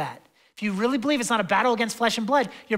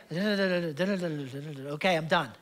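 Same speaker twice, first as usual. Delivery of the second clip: mock smug quitter; 5 semitones lower, 5 dB quieter, much slower than usual. Mock believer quitting after reading.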